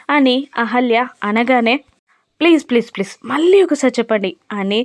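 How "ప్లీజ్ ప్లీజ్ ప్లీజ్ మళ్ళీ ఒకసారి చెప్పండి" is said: mock helpless begging, rushed; childlike pleading. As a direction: plead like a helpless kid, fast. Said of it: "బేలగా బ్రతిమిలాడుతూ".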